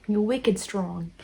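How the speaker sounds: slow, half-successful Boston accent; bad Boston accent. Shown as a demonstration. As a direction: draw it out in a badly faked Boston accent. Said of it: "Boston accent. That was a terrible one".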